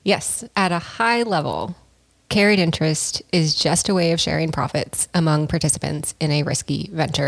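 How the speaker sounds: lightly voiced Irish pirate explaining finance; light Irish pirate accent. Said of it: "speaking in a slightly Irish pirate accent".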